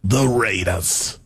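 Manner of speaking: slow, low drawn-out announcer call; Chris Berman impression. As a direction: stretch The Raiders like a booming sportscaster. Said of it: "is that your Chris Berman impression".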